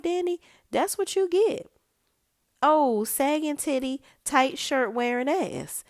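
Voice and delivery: high, loud telling-off; mock scolding. Host telling off Danny over her clothes, scolding.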